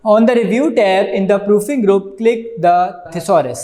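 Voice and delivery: very slow, word-by-word reading from the book; slow textbook reading. Acted. Teacher reading the book aloud to students, slow dictation.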